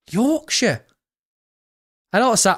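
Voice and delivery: a clumsy stab at Yorkshire; attempted Yorkshire accent. Shown as a demonstration. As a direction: try a Yorkshire twang on "Yorkshire". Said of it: "I can't even do a Yorkshire accent".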